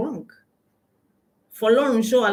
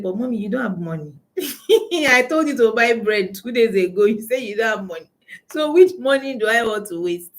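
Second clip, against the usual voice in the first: retold child; 2 semitones higher than usual. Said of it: "the girl said".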